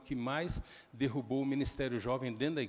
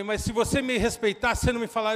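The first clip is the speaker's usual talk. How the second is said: acted angry shout; 8 semitones higher, 10 dB louder than usual. Father retold arguing with son.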